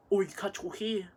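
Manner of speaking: mildly mocking mum's snide tone; a hint of a sniping mother; snide remark. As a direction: imitate a passive-aggressive jab, lightly. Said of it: "the way she says it, you can tell when she's pissed".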